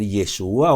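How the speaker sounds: "Yeshua" said ye-SHU-a, stressed on the U; Hebrew-style name. Shown as a demonstration. Objector insists on the correct name, Hebrew-style pronunciation. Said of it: "tú dices Jesús y debe ser".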